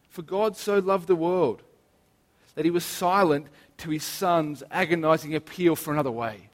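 slowed, pointed retelling of the verse; reworked verse. Shown as a demonstration. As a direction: turn the famous line into a hard truth.

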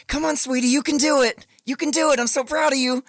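high, sing-song encouraging dad voice; cooing dad. Retold or imitated. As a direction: coo like a dad cheering on his toddler. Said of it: "and he's like".

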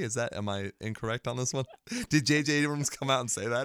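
trying not to grin; amused, a laugh close to breaking through; barely suppressed grin. Real, not acted. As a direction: ask it through a grin you can barely hold back. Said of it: "barely get through that sentence without completely grinning".

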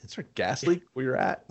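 unvoiced teasing whisper. Real, not acted. Host teasing co-host, whisper. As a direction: whisper the jab sideways.

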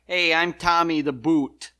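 loud, cocky mob-guy hello; light Chicago mobster voice; mobster intro. Pretend. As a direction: introduce yourself like a hitman. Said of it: "So you got".

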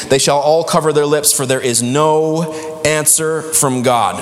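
scripture read with "night", "darkness" and "no" leaned on; emphasized reading. Real, not acted. Preacher reading the prophet's verses to the congregation, emphasizing key words. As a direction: lean on the key words, slowing heavily at "no answer from God". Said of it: "I emphasize the words. This is fun".

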